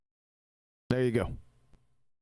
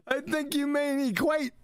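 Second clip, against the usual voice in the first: higher, mocking imitation of the know-it-all correction; mocking the corrector; 9 semitones higher than usual. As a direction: parrot the correction in a snooty, raised voice. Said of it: "Fucking Lennox corrects him".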